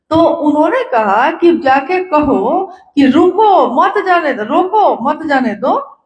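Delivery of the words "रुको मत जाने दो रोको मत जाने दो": group it as रुको, then मत जाने दो; comma after रुको. Shown as a demonstration. Relaying Sahab's order to a guru brother, comma after रोको. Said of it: "लेकिन comma भूल गया वो".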